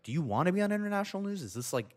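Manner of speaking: fast, high-pitched mock yell at mom; retold yelling. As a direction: imitate a frantic telling-off, pitch jumping up. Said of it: "I was just yelling at her".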